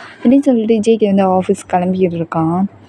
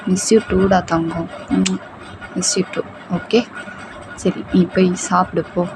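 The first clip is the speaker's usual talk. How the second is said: put-on tender boyfriend; 5 dB quieter than usual. Boyfriend answers her tenderly.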